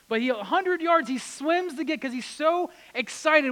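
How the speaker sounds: loud, high, eager build; excited storytelling. Acted. Preacher telling Peter's leap from the boat, excited and loud. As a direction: sweep them along with the rush.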